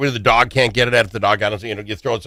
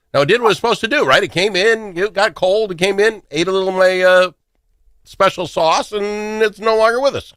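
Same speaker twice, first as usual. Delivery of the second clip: much higher, storytelling mock eulogy; mock solemn tale; 8 semitones higher than usual. Host mock-mourning the poisoned mouse to his guest, much higher pitch. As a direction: tell the mouse's fate like a grand little fable.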